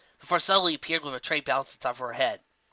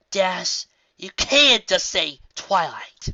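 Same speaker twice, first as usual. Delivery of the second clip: lightly raised unicorn voice, chiding; a hint of a stern Twilight; Twilight, scolding; 5 semitones higher, 5 dB louder, much slower than usual. Twilight chides Dash over the headset, lightly voiced.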